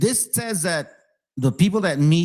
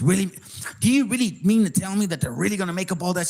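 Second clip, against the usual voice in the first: mild mock disbelief; 4 semitones higher, faster than usual. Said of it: "I know it sounds silly".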